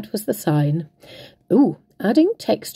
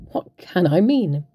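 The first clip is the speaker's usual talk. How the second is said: slow laughing question; laughing tease; slower than usual. Acted. Crafter teasing her viewers about the sign, laughing slowly. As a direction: chuckle through the rhetorical question.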